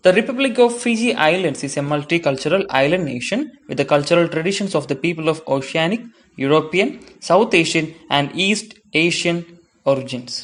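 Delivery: slow, careful read-aloud of English text; textbook reading. Acted. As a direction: read each phrase out slowly for students. Reads English textbook passage aloud.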